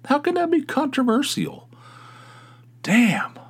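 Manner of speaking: getting pissed. Real, not acted. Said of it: "I'm getting pissed".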